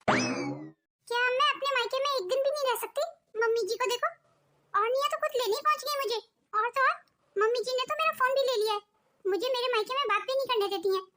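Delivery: indignant, aggrieved venting to a husband; angry complaint. Acted. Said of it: "बहुत गुस्सा हो रही हो". (गुस्से भरी शिकायत)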